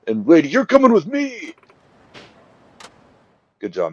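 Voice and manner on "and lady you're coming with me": eager. Retold or imitated. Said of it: "And Wada's like".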